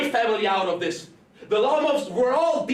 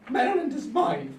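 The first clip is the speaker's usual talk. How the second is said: higher, pushing shout on Maryland; higher shouted claim; 5 semitones higher than usual. Acted. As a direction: yell your claim at her. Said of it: "What are you two shouting for?".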